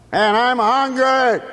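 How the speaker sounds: high, drawn-out whiny hunger voice; gut talking. Acted. The gut god telling Simon it is hungry. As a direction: let the belly complain. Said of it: "his gut god starts to talk".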